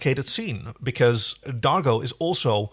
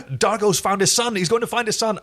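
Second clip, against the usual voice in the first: higher, louder mock excitement over the plot; mock hype; 9 semitones higher, 3 dB louder than usual. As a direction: ham up the breathless plot teaser. Mocking the show's hyped plot.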